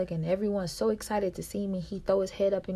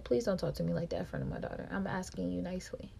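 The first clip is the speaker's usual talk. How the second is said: softer, fast, ending almost in a whisper; calm quiet podcast tone; 7 dB quieter, faster than usual. Retold or imitated. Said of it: "Same tone of voice as I'm doing my podcast".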